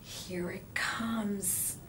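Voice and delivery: hushed, slow whisper; child whispering uh-oh. A narrator's reading. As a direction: whisper to a classmate in dread. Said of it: "Amy whispered".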